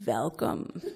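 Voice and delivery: put-on low, thick Russian accent. Tutoring-centre lady welcoming mother and sick daughter, thick Russian accent. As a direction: greet them in a heavy Russian accent. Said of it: "she said through a thick accent".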